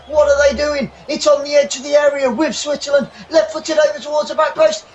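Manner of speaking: fast, rising match call; live football commentary. Acted. Fan commentating a match live. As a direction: call the action as it unfolds.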